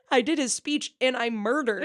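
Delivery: laughing through the words; half-shouted while cracking up. Real, not acted. Quoting friend's line while laughing.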